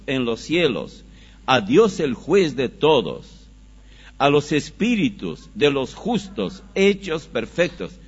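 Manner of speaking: forceful pulpit reading, phrase by phrase; scripture reading. Acted. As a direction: declaim the passage with measured force.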